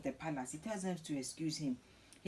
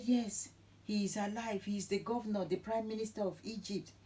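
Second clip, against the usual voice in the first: higher-pitched, emphatic good news; excited confirmation; 4 semitones higher than usual. Retold or imitated. Sons telling Jacob that Joseph lives, excited confirmation. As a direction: insist on it with raised pitch.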